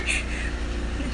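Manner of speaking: a short voiceless sob breaking through; a catch of a sob she can't hold back; choked sob. Real, not acted. Shelter volunteer on live video breaking into a sob. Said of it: "Don't know why I'm crying".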